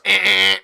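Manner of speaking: loud rejecting buzz; door buzzer beep. Retold or imitated. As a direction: imitate a denied-access buzzer. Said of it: "and it goes".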